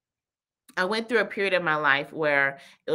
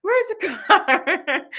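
put-on very high, drawn-out child voice; mock insistent little boy; imitating pestering kid; 13 semitones higher, 5 dB louder, much slower than usual. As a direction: whine the question slowly, ending in a laugh. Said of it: "the kids always be asking questions".

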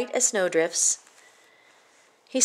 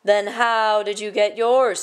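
snapped; 4 dB louder than usual. Acted. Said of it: "snapped the king".

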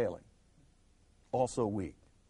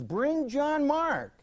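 earnest request; 10 semitones higher, 5 dB louder, much slower than usual. Retold or imitated. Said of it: "that he says".

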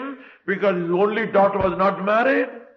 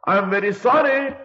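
higher, louder, grieving father holding to his oath; king's anguished vow; 7 semitones higher, 4 dB louder than usual. Acted. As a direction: cry it out, he cannot go back. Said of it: "He said".

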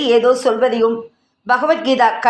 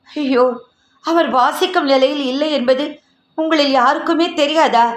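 tearful; 3 semitones higher than usual. Acted. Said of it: "என்றாள் யாமினி கண்ணீருடன்".

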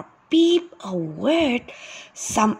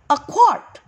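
eager answer; 6 semitones higher, 5 dB louder than usual. Acted.

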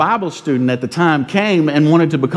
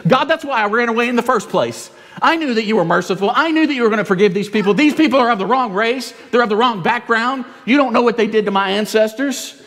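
higher, petulant complaint to God; a sulking prophet griping, a bit higher; whiny Jonah; 6 semitones higher than usual. Acted. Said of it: "he says".

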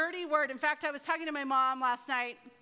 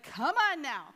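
mildly irritated acted captain; lightly voiced impatience; a little angry; 4 dB louder than usual. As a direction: act out a touch of annoyance. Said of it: "he got a little angry".

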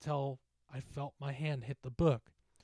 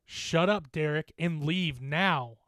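firm, louder order ending slowly; stern command; 3 semitones higher, 6 dB louder, slower than usual. Acted. Narrator telling the drunk bully to go, stern. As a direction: order him off, weighting the last words. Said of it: "more sternly now".

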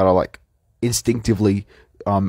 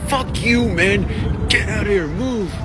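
imitating angry swearing; 9 semitones higher than usual. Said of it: "he started swearing at us".

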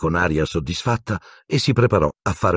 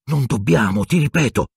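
rising higher, firm insistence; insistent refusal; 7 semitones higher than usual. Acted. Hermione refusing Harry again, insistent and exasperated. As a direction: hold your ground, exasperated. Heated whispered argument.

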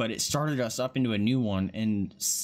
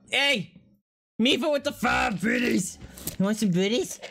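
pet talk voice; 14 semitones higher, 4 dB louder than usual. Real, not acted. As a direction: coo at the dog with treats. Talking to pet, treats.

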